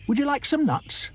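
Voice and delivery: very high monkey offer; squeaky monkey. Acted. Monkey offers nuts to the crocodile, very high. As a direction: squeak it eagerly. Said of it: "asked Mugglewump".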